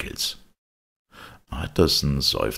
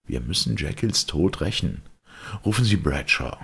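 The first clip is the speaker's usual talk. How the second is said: lightly voiced, resolute lawyer; determined lawyer; 5 semitones higher, 3 dB louder than usual. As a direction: voice a grave lawyer taking charge, a bit higher. Lawyer character speaks. (entschlossener Advokat, leicht angedeutet)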